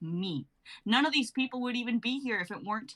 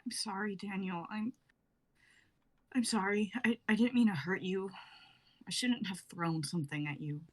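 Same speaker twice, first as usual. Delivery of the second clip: tearful apology. Acted. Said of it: "Rose continues crying".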